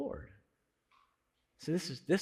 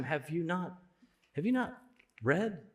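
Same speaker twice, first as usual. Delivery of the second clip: softer, gentle question with a lifted you; gentle but direct; 3 semitones higher, 4 dB quieter than usual. Retold or imitated. Preacher voicing Jesus to the Pharisees, gently. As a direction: ask it kindly but pointedly. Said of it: "so gentle and so direct".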